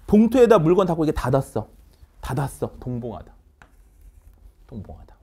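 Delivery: ordinary talk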